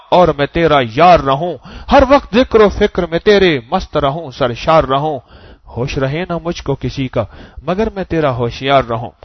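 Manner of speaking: lilting devotional poem recital, slowing on the half lines; preacher chants the poem to the congregation; recited verse. Acted. Preacher reciting verse to his listeners, fervent and lilting.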